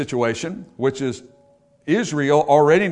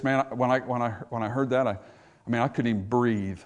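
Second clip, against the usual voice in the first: stunned by bad news; 3 semitones lower, 6 dB quieter than usual. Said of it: "you hear them say something like this".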